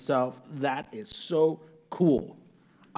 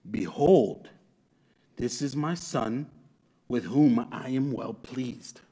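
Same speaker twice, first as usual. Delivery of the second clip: slow, lowered voice from heaven; measured, weighty divine proclamation; voice of God; 3 semitones lower, slower than usual. Acted. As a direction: attempt a deep, solemn God voice with pauses. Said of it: "I don't have a deep enough voice for this".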